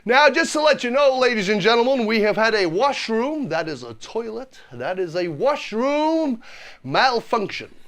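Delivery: lightly imitated bus driver addressing passengers; a hint of a driver's singsong patter; bus driver announcement. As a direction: announce it like a chatty coach driver. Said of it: "That's exactly what he said".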